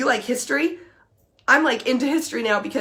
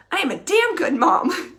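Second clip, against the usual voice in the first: proud shout; 4 semitones higher, slower than usual. Shown as a demonstration. Declaring new positive statement.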